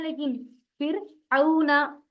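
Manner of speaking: फिर औना slowly with a gliding औ; correct Arabic reading. Shown as a demonstration. Teacher models the right Arabic reading. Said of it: "अरबी में नहीं कहना है".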